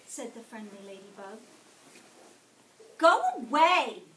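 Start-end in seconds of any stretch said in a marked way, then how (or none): 3.0-4.0 higher, much louder angry bark; grouchy shout. A narrator's reading. Grouchy ladybug shouts at the friendly ladybug, loud. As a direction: shout the intruder off the leaf. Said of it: "shouted the grouchy ladybug".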